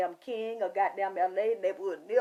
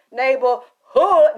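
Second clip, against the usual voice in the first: loud, slow, stretched shout of neighborhood; drawn-out shout; 2 semitones higher, 12 dB louder, much slower than usual. Real, not acted. Shouting neighborhood to the viewers in a long, drawn call. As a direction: bellow it out long.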